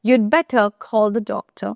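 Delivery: very slow, spaced-out example. Shown as a demonstration. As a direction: stretch every word for learners. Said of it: "repeated example slowly". (খুব ধীরে উদাহরণ)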